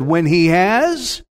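slow, assured stress on HAS; confident faith. Shown as a demonstration. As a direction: HAS drawn out as a certainty. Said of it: "You hear the faith in his tone?".

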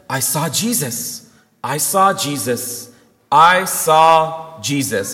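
slow, awed testimony, building in volume; understated tearful wonder; retold happy tears. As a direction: imitate an overwhelmed mother, word by word. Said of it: "Crying happy tears".

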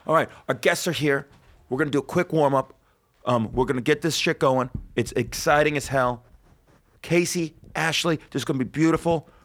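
lightly voiced cheesy TV host; eighties game show host. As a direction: sell it like a retro quiz host. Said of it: "talking like an eighties game show host".

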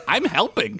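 eager, high little helper; high goofy voice. Acted. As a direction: chirp it proudly. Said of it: "he said".

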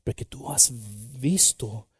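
hushed whisper; whispered peace. Retold or imitated. Jesus speaking peace to the disciples, whisper. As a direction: breathe paz softly. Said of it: "le dice".

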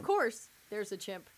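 sarcastic. Retold or imitated. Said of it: "and I wrote".

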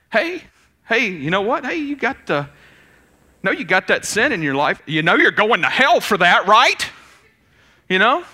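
high, loud, hammed-up condemning preacher; loud mock street preacher shouting at passers-by. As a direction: wag a finger and condemn them to hell.

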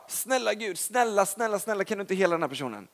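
preacher imitating a timid begging prayer; mock pleading prayer. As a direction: beg like God won't help. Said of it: "istället för att liksom bara".

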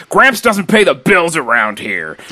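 high, slow, drawn-out imitated yell; hammed-up yell, stretched out; mock yell. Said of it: "and he yells".

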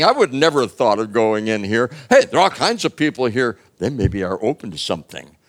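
upbeat realization. Acted. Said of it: "They said".

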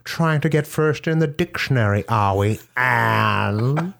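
high, sarcastic sing-song question; sneering taunt. Pretend. Taunting her partner over her name, high and sarcastic.

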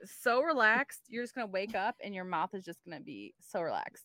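a touch of face-wash ad voice; lightly voiced soothing commercial pitch. Promising a patient a relaxed mouth, light commercial voice. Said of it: "like, a face wash commercial".

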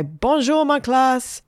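a teacher sing-songing hello to his pupils; French teacher greeting. A narrator's reading. French teacher greets the class, voice lifted high.

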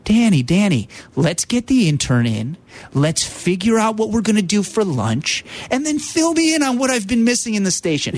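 a light imitation of a calm, coaxing friend. Producer imitating his late friend, calm and coaxing. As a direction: ease into it like an old pal settling you. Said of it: "in that voice, that calming voice".

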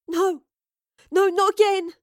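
desperate high scream. Acted. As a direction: cry out, refusing it. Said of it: "she screamed in thought".

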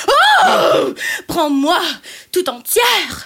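too erotic. Acted. Juliette calling Romeo to take her, sultry and erotic. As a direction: play it seductive. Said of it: "Pas trop érotique".

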